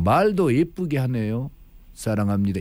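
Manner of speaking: ordinary delivery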